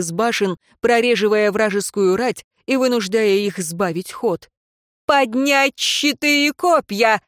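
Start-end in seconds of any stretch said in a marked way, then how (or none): 5.1-7.2 high, slow commanding shout; rally the troops for the charge; gruff barked parade orders. A narrator's reading. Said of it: "закричала Альвия". (громкий командный приказ)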